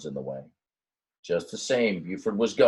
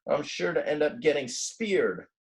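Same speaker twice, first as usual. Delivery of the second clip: lightly voiced worried ram; 7 semitones higher than usual. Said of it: "thought Buford".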